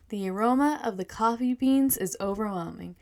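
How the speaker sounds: measured reading of a story; first-person tale, evenly told; story narration. A narrator's reading. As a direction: read it aloud like a storyteller. Reads her story aloud.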